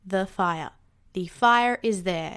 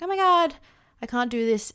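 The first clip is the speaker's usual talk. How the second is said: half-hearted mock wail to her partner; mock panic; 2 semitones higher, 3 dB louder than usual. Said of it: "just been like".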